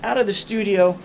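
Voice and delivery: stuffy nose from a head cold; congested, blocked-nose voice; nasal voice. Real, not acted. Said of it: "I apologize if I sound a little nasally".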